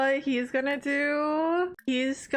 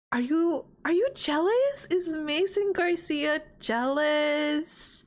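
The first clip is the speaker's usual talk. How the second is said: teasing; 3 semitones higher than usual. Acted. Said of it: "gonna be like".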